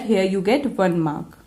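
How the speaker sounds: ordinary delivery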